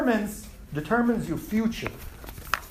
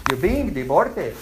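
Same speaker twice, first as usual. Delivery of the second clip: deported said in a Pakistani accent; 5 semitones lower than usual. Shown as a demonstration. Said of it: "The Pakistani accent".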